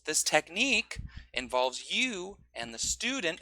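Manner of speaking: slow, stressed syllables lifted; slow demo with pitch peaks. Shown as a demonstration. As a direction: raise the pitch on strong words. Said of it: "raise the pitch".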